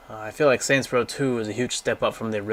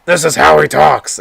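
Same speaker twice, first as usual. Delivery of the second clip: big hammed-up wrestler shout; Strong Bad voice; 5 semitones higher, 16 dB louder than usual. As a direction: roar it like a masked wrestler on the mic. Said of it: "Strong, but he's like a luchador".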